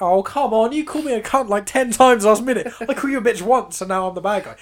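high, loud aggrieved protest; acted-out lovers' quarrel complaint; mock exasperation. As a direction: argue back, indignant and loud. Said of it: "and you're like".

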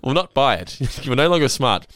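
hint of a stubborn Jerry; mock stubborn. Jerry refusing Elaine's answer, lightly mock stubborn. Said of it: "Well, I really think".

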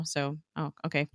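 ordinary talk

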